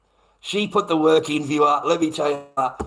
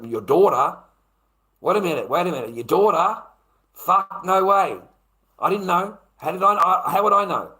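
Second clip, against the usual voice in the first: shocked protest; 2 semitones higher, 3 dB louder than usual. Retold or imitated.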